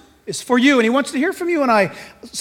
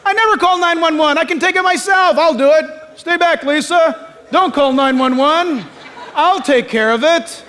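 mock macho bravado; 5 semitones higher, 4 dB louder than usual. Mocking macho self.

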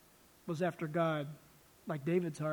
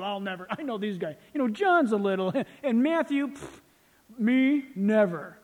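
boastful flesh; 2 semitones higher, 4 dB louder than usual. Retold or imitated. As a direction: boast loyalty, dismissing the others. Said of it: "The flesh says".

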